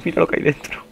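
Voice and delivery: high, alarmed voice at normal volume; high-pitched dismay, short of screaming. Real, not acted. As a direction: point out the danger in a high voice. Sees monster inside, first take.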